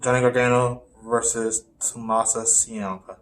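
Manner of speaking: Ciampa said as "see-AHM-pa", slowly; Ciampa without H. Real, not acted. Co-host announcing the match, Ciampa said "see-AHM-pa". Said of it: "there's no, there's no H".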